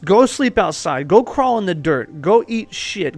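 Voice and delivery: forceful drill-sergeant commands; punchy, imperative training orders. Acted. Acting out harsh soldier training orders.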